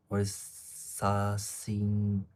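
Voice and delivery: "sa-, sing-" sounded out very slowly; halting, drawn-out attempt at "sa-, sing-"; unsure pronunciation. Real, not acted. Streamer stuck on an unknown word in the chat, sounding it out. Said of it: "I don't know how to pronounce that word".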